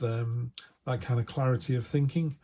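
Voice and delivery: normal talking voice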